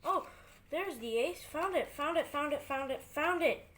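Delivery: gleeful, rising pitch, repeating quickly; happy to have finally found it; excited. Real, not acted. Excitedly finds the missing ace.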